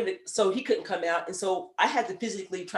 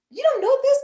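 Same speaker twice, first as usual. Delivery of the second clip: much higher and louder, incredulous; mock disbelief; 9 dB louder than usual. Older hygienist to young coworkers, high incredulous yelp. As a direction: act amazed they never learned this.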